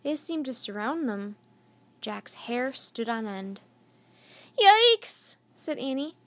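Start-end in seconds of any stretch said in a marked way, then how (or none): 4.6-5.4 high, loud scared cry; frightened yelp. A narrator's reading. Annie startled by a tiger's growl, high frightened yelp.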